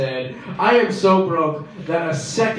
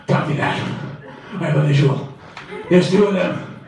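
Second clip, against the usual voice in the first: CIA agent. Pretend. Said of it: "pretend like I'm a CIA agent".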